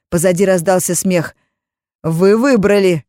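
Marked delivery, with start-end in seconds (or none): 2.0-3.0 slow loud threat; menacing shout. Acted. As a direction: spit out the verdict. Mages laughing, threatening.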